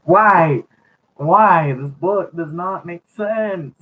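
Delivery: exasperated laughing. Real, not acted. Reader giggling at the book.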